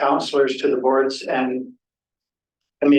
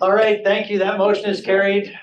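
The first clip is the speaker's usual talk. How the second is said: higher, a laugh through the words; 6 semitones higher than usual. Real, not acted. Chair amused by a councillor's joke, laughing. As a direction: still chuckling as you wrap up.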